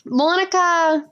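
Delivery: slow Southern drawl; Southern accent. Acted. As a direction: whine it out in slow Southern style. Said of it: "We're gonna make her real Southern".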